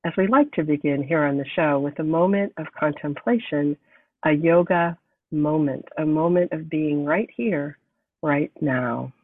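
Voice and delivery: measured, unhurried meditation voice; guided meditation. Acted. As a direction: ease listeners into a moment of contemplation. Opens show with meditation moment.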